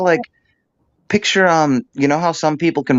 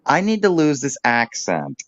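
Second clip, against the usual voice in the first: "I need to lose this accent" sliding down to a settled "accent"; falling tune; 3 semitones higher than usual. Shown as a demonstration. Coaching again, a confident falling statement. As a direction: say it down, like a fact. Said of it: "You're a good vocal coach".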